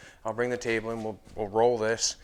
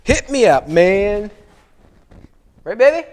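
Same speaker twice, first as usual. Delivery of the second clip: loud, high, pumped-up call; excited shout; 10 semitones higher, 16 dB louder, slower than usual. Real, not acted. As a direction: shout it out, fired up. Cheering on after a sigh.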